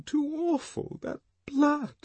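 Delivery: high, shaken cry; distressed. A narrator's reading. Lenina horrified by the blood, high, shaken cry. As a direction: recoil from the sight of blood. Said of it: "Lenina was still sobbing".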